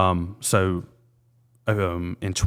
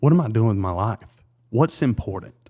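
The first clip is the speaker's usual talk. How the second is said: breaking down; 2 semitones higher, 4 dB louder than usual. Retold or imitated. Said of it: "I broke down".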